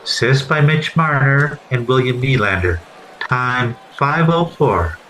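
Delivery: arena public address announcer reading the goal; Paul Morris impression. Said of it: "the darndest best announcer ever at Maple Leaf Gardens".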